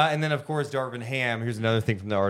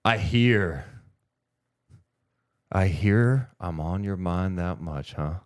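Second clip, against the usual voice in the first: wrestling promo; 2 semitones lower, slower than usual. Pretend. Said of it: "he just grabs the mic".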